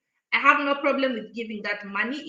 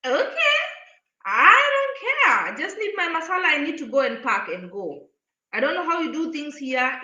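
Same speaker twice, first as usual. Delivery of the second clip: exasperated quote; 3 semitones higher than usual. Retold or imitated. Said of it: "And I was like".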